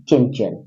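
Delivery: चंचल with the dot said as a nasal n; nasalised pronunciation. Shown as a demonstration. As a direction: say चंचल with a nose-made half n after the first च. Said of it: "नाक से बोलिए".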